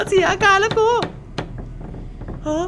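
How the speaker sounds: half-laughing, half-crying after the scare; shaky nervous laugh. Real, not acted. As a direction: laugh it off, still shaking. (หัวเราะปนร้องไห้หลังตกใจ)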